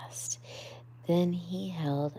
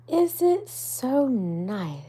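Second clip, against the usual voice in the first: higher, louder, slow wondering question; shy Mole; 9 semitones higher, 8 dB louder, slower than usual. Acted. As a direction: ask it timidly but amazed. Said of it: "asked Mole shyly".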